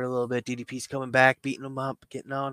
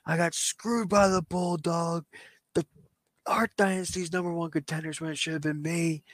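lightly voiced wrestler demanding a match; insistent, punched-out complaint; aggrieved wrestler; 4 semitones higher than usual.

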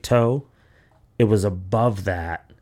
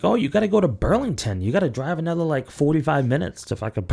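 higher, offhand clinic staff voice; staff brushing off; 6 semitones higher than usual. Retold or imitated. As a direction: say it like it's no big deal, pitched up. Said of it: "they're like".

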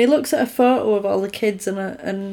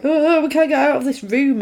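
mildly panicked, pitched up; mock panic; 4 semitones higher than usual. Trapped dream group retold to co-host, mock panic. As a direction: act out a group starting to panic.

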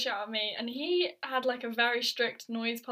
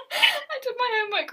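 higher, louder repeat; emphatic; 10 semitones higher, 3 dB louder than usual. Real, not acted. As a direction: repeat it with a laughing lift. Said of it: "repeats line higher".

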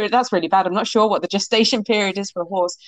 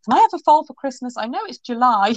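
pleading; 5 semitones higher, 3 dB louder than usual. Retold or imitated. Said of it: "and I was like".

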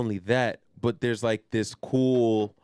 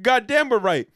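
brothers' ghost voice; 13 semitones higher, 8 dB louder than usual. Retold or imitated. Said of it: "He's like".

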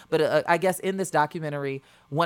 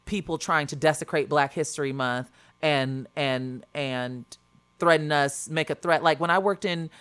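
halting, repeating words as the nerves show; stuttering from shaking. Real, not acted. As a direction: stumble and restart, really shaken. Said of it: "I'm stuttering because I'm shaking".

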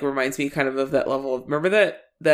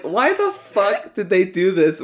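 mock outrage; 6 semitones higher than usual. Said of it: "I was like".

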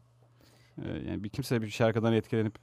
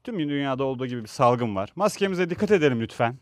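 higher-pitched, pleading statement to the public; earnest public appeal; 6 semitones higher than usual. Pretend. Host models what the actor should tell fans, earnest appeal. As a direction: appeal to everyone like a responsible celebrity.

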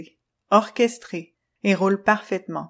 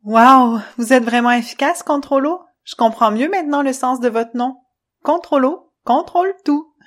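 loud, higher, amazed little spirit; excited Luna; 4 semitones higher, 7 dB louder than usual. Acted. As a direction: gush with delight. Luna impressed.

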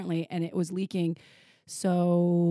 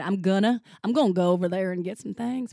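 put-on Southern accent; 4 dB louder than usual. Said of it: "I've been doing South all day on you".

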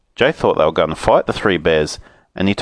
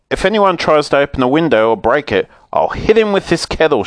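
shout; 6 semitones higher than usual. Acted. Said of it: "shouted Moonface".

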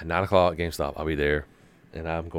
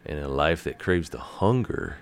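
dramatic lyric reading. Pretend. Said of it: "Those are lyrics from Devil May Cry".

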